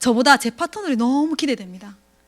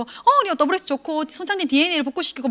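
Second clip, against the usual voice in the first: pitch sell; 3 semitones higher than usual. Retold or imitated. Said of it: "막, 막 얘기해".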